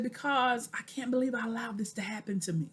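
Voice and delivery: hushed whispered confession; retold in a broken whisper. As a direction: whisper it as if ashamed. Retold emotional reply to friend.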